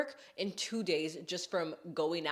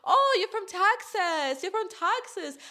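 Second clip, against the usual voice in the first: put-on high, loud, butchered Australian accent; 13 semitones higher, 7 dB louder than usual. Australian girls reacting to her hometown, hammed-up Australian accent. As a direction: gush in an exaggerated Australian accent. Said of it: "I know I'm butchering the accent".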